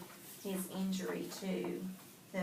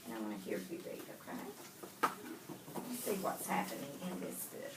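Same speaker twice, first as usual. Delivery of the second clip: whispering; 8 semitones lower, 6 dB quieter than usual. Real, not acted. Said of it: "Go ahead, whisper".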